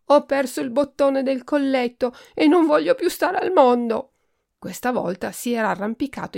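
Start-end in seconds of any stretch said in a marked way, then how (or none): 0.1-4.1 higher, louder petulant wail; spoiled duke wailing over a lost button; whiny tantrum. A narrator's reading. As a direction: threaten despair like a spoiled child.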